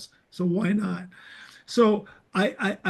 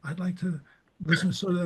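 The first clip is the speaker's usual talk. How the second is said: intimidated; 5 dB quieter, faster than usual. Retold or imitated. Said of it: "It was very intimidating".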